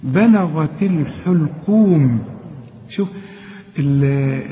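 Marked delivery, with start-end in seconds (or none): 0.0-2.2 بلغت الحلقوم slowly, the lam thin; slow recitation. Shown as a demonstration. Teacher modelling the verse for student, slow. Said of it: "اللام هنا برضو مرققة".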